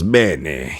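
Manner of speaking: put-on a touch of Ezio's Italian accent. Gamer imitating an Italian-speaking game hero, light Italian accent. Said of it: "speaking more in an Italian accent".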